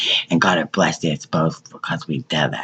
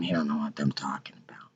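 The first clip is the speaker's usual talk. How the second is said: hushed whisper; 3 semitones lower, 11 dB quieter than usual. Real, not acted. Secretive claim he denies knowing.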